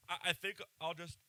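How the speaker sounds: speaking through a yawn; words stretched by a yawn. Real, not acted. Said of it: "don't make no comments about the yawning".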